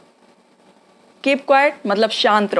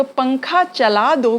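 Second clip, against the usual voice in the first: slow demo; slower than usual. Shown as a demonstration. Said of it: "आप सोचने लगोगे".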